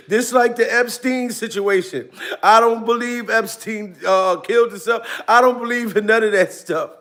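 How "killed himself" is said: usual speaking voice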